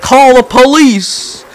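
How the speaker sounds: high, loud, drawn-out cry for rescue; hammed-up imitation of a man yelling slowly; mock screaming. Driver being arrested by police, mock screaming. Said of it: "the guy starts screaming".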